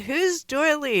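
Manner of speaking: startled, high, loud question; surprised. Retold or imitated. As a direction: ask it in sudden surprise. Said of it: "And I went".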